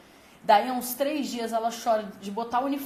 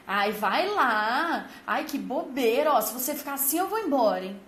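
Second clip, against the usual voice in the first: louder, dragged-out nagging; impatient threatening parent; 4 dB louder than usual. Retold or imitated. A parent nagging a child in the pool, impatient and loud. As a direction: push the child with a mock threat to leave. Adult pressuring a scared child.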